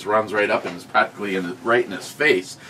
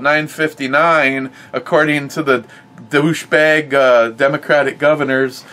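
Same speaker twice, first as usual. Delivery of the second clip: high, louder cartoon virus voice, hammed-up; playing the virus; 5 semitones higher, 5 dB louder than usual. Mocking the plastic shield as a foiled virus, hammed-up high voice. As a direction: clown it up as a bumbling covid germ. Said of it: "let's just say I'm covid right now going".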